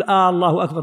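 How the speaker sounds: "الله" begun with a long "aaa"; stretched opening alif. Shown as a demonstration. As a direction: draw out the alif that opens "الله". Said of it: "كل هذا لا يصلح". (مدّ الألف أول «الله»)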